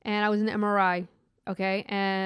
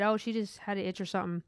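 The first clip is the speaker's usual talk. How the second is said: softer, matter-of-fact reply; imitating unemotional coworker; 6 dB quieter than usual. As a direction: toss it off without any emotion. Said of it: "no emotion, nothing".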